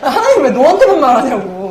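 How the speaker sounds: playfully exaggerated annoyance; annoyed retort. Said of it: "막 짜증을 막 내는 거예요".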